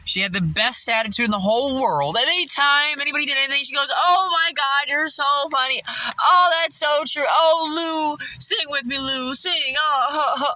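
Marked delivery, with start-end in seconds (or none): 3.9-10.5 high, gushing fake-sweet coworker; mock-sweet voice of a fake-nice manager. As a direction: lay on the sugar like a fawning manager. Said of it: "she was doing that whole thing".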